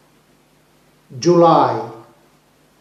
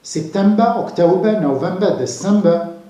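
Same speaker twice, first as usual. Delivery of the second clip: month names with no final R, just a schwa; British English non-rhotic September to December; British English pronunciation; faster than usual. Shown as a demonstration. Teacher listing months for learners, British English accent. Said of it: "This is British English".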